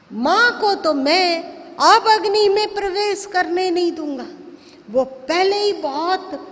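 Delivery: acted stern ultimatum, measured phrases; firm, emphatic defiance in a retelling; stern warning. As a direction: lay down a firm challenge to an elder brother. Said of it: "एकदम कठोरता से बोले".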